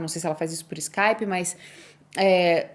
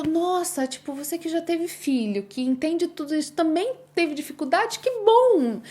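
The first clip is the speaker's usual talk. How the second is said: relieved excitement; 8 semitones higher than usual. Retold or imitated. Relieved exclamation to Joyce.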